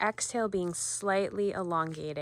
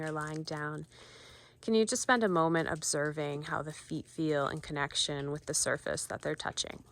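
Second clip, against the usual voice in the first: guided meditation. Acted. Volunteer guiding viewers to ground themselves, calm meditation voice. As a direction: ease listeners into noticing their feet.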